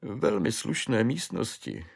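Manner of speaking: high, wailing clerk's voice; a broken man recounting his spree; desperate clerk. Acted. Clerk tells Švejk how the name-day spree began, high wailing.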